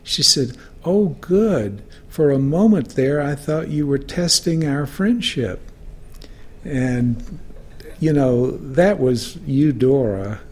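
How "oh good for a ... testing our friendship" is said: lightly imitated, higher-pitched relief; a hint of the old friend's lifted voice; relieved witty friend. Writer teasing her younger friend on the phone, lightly relieved.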